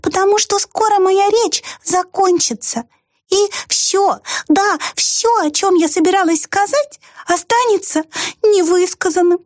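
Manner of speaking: tiny mouse voicing its regret. A narrator's reading. Mouse's speech. (высокий мышиный голосок, с грустью)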